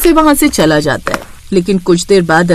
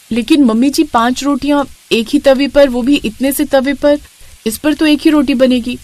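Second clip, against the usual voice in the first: protesting bride; 2 semitones higher than usual. Acted. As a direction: plead with your mother-in-law about the tiny pan.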